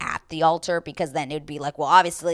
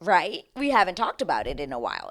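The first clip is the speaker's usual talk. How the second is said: exaggerated wink wink suggestion; mock scripted nudge; mock sly hint; 4 dB louder than usual. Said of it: "it's just like".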